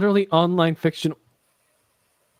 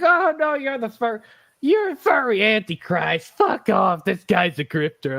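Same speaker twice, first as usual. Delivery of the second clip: higher-pitched, indignant imitation of critics; mock outrage; 4 semitones higher than usual. Host mimicking offended fans reacting to his review, mock outrage. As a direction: mimic angry commenters with mild exaggeration. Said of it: "they got so mad".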